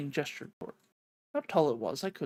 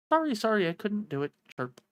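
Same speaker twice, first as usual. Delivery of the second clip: apologetic little bird; 4 semitones higher than usual. Acted. Voices the little bird character.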